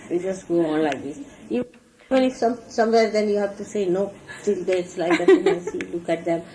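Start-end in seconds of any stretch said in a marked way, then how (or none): none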